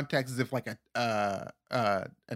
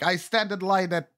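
put-on higher accent drifting from African to Middle Eastern; botched African accent; 4 semitones higher than usual. African comic starting a joke, accent slipping into Middle Eastern. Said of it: "a Middle Eastern accent".

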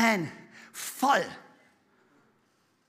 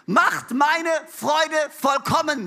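slow, loud proclaiming of the apostle's plea; a preacher booming a Bible verse slowly; quoting Paul; 3 semitones higher, 3 dB louder, much slower than usual. Retold or imitated. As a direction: stretch every word out like a call to the church. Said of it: "sagt er".

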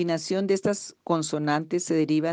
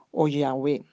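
whispered; 3 semitones lower than usual. Real, not acted. Aside after naming Jehová.

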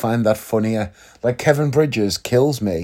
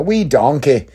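brief mock Irish accent; 2 semitones higher, slower than usual. Shown as a demonstration. Saying what he can get away with, Irish accent. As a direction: drop into an Irish accent for two words. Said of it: "try and do that as an Irish accent".

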